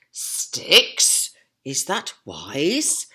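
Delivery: loud surprised "Sticks?"; doubtful asking. Acted. Percy doubting Boris, loud surprised question. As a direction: question the plan. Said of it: "asked Percy".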